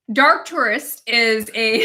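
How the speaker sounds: slow attempt at a New Zealand accent; amateur New Zealand accent, carefully drawn out. Shown as a demonstration. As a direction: try a careful Kiwi accent. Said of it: "I can do the New Zealand accent".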